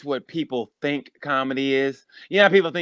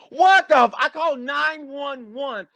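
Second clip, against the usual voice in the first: sudden high startled outburst; retold shock; 10 semitones higher, slower than usual. Retelling his call to 911, startled high outburst. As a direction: blurt it out in disbelief. Shocked at dispatcher knowing him.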